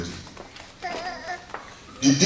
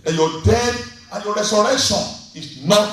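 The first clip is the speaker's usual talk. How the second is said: fervent preached prayer; 2 semitones higher, 3 dB louder than usual. Acted. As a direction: pray over the people with rising force. Pastor leads closing prayer.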